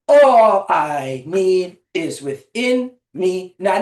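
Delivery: very slow, evenly spaced chant; rhythmic incantation. Shown as a demonstration. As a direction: pace each word out to a marching beat. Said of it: "we're gonna add that incantation".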